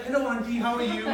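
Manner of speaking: a light Indian lilt on "Hello, auntie"; full Desi. Retold or imitated. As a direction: greet her like a polite Desi boy. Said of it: "I went full Desi".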